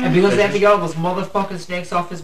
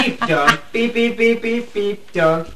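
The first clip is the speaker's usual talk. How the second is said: censor beeps; 7 semitones higher, 4 dB louder, slower than usual. Pretend. Mimicking an edited episode, louder bleeping beeps. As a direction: imitate a censor bleep over the words. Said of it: "it's gonna be".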